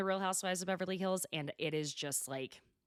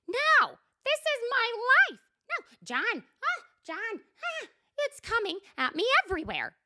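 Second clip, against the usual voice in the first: high, loud distraught wail; imitating a frantic breakdown; hammed-up despairing cry; meltdown; 6 dB louder than usual. Shannon melting down.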